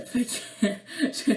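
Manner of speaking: real giggle breaking into the words; laughing. Real, not acted. Vlogger tickled by her own remark, laughing. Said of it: "désolée si je ris un petit peu pour rien".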